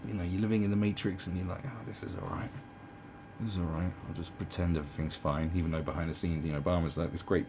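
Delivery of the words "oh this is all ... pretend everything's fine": mock complacency. Voicing complacent Matrix dwellers.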